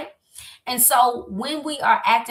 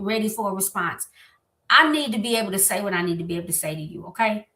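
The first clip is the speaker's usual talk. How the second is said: calm I message. Shown as a demonstration. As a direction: speak your hurt gently without attacking. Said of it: "Much better, right?".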